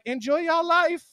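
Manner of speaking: high, slow sing-song "Enjoy y'all life."; cheery retort. Retold or imitated. Comedian answering insults, high cheery sing-song. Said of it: "I'm like".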